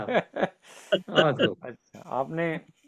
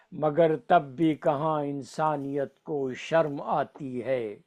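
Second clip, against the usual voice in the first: stately nazm recitation; slower than usual. Acted.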